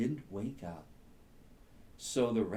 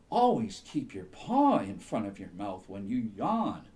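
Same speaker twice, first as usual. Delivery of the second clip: owl voice; 3 semitones lower, 5 dB louder than usual. Acted. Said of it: "hooted the owl".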